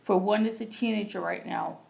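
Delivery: measured poetry recital with pauses between lines; open-mic poem read plainly and deliberately. Acted. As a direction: read your poem out phrase by phrase, evenly. Reads own poem aloud.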